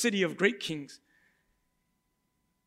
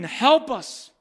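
crowd screaming; 5 semitones higher, 3 dB louder than usual. Retold or imitated. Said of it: "And they're screaming".

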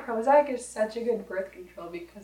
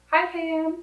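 mock greeting; 8 semitones higher than usual. Greeting the host's mom in a put-on voice.

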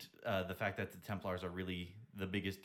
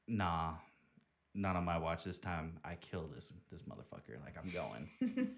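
tough heroine; 6 semitones lower than usual. Retold or imitated. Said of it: "Power Ranger bitch is like".

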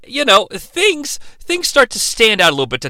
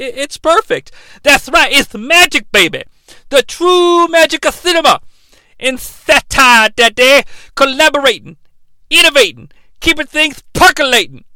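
loud, higher wrestling-promo voice, shouting; Dusty Rhodes impression; 6 semitones higher, 3 dB louder than usual. Co-host as Dusty Rhodes cutting a promo on the recap, loud and high. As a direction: hype it like an old wrestling legend cutting a promo. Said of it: "Borsco's Dusty Rhodes".

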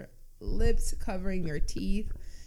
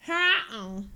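pterodactyl shriek; 7 semitones higher, 6 dB louder than usual. Pretend. Pterodactyl screech in game.

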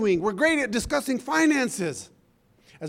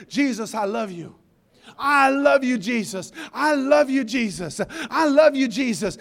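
tender prayer. Retold or imitated. Retelling tearful prayer.

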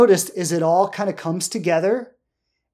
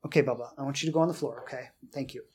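aside to the dog; 4 semitones lower, 9 dB quieter, faster than usual. Real, not acted. Aside telling dog Bubba to get down.

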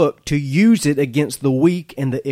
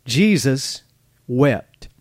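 slow, weighty, each word set apart; a solemn pause between Jesus and wept; reverent; much slower than usual. Shown as a demonstration. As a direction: let the two words land with reverence. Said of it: "It's a beautiful verse, really".

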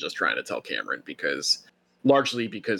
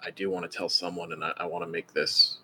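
quiet, low confiding voice; hushed, lower, as an aside to a friend; 3 semitones lower, 5 dB quieter than usual. Acted. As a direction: drop your voice so the others don't overhear. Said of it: "he kinda lowers his voice".

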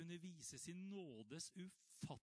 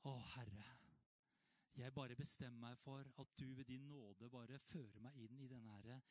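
quiet prayer; 3 semitones lower than usual. Retold or imitated. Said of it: "vi bare må bare si".

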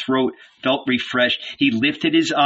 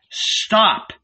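shouted stop; 8 semitones higher than usual. A narrator's reading. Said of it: "stand up and shout".

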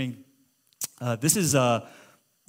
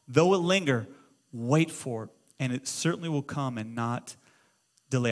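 scripture reading. Real, not acted. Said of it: "watch what Habakkuk says".

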